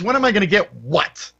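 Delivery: mildly mocked huffy comeback; retold indignant tone. Agent answering the buyer back, mildly imitated indignant tone. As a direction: throw it back as an offended question. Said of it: "you've heard that tone".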